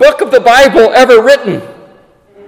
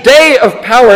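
"day" punched louder than the following words; stress on day; 3 semitones higher, 4 dB louder than usual. Real, not acted. Preacher stressing how brief it is, emphasis on "day". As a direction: hit "day" hard. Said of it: "I emphasize the word day".

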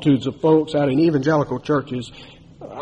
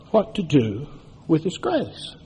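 hushed aside; 6 dB quieter than usual. Real, not acted. Preacher drops to hush.

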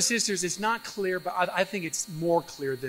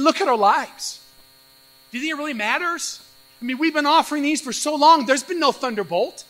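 dismissive, rising pitch, louder; disdainful priest; 5 semitones higher, 4 dB louder than usual. Retold or imitated. Priests mocking worship rules, disdainful scoffing. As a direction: scoff like a bored cynical priest. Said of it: "disdainfully sniffing".

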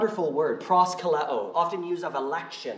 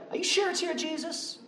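mocking doubt; 11 semitones higher, 7 dB quieter than usual. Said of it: "they're like".

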